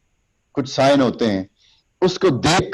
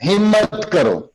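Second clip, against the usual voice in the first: high, firm call of courage; rally them with it; pitched-up rousing exhortation; motivating call; 7 semitones higher, much slower than usual. Shown as a demonstration. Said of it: "تو ہمت کے لیے ہم یہ کہیں گے".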